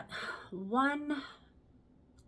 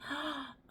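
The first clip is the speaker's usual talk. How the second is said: mock gasp of realization; 5 semitones higher, 7 dB quieter than usual. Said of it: "have an epiphany and say".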